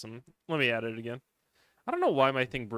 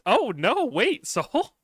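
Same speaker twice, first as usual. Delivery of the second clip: louder, higher, caught off guard with a laugh; surprised shout; 9 semitones higher, 6 dB louder, much slower than usual. Real, not acted. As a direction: yelp of surprised recognition. Reacts to a chat name.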